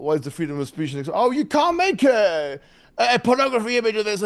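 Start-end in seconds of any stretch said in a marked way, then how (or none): 1.2-4.2 mock scolding objector. Objector forbidding an image despite free speech, mock protest. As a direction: parody a scandalised objector, stretching the words.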